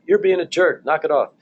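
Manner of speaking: hammed-up irritated reply; mock angry retort. Shown as a demonstration. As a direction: show the wrong way, a mock heated jab. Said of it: "So I don't say back".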